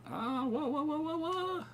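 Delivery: whoa climbing very high; rising whoa. Real, not acted. Player watching Olivia fall, whoa rising. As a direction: let it climb and climb.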